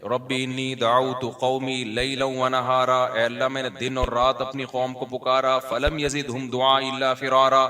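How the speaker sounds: slow, measured melodic recitation of the verse; Quran recitation. Acted. Preacher reciting Nuh's verse to the congregation, slow chanted recitation. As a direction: intone the Arabic like a reciter, slow.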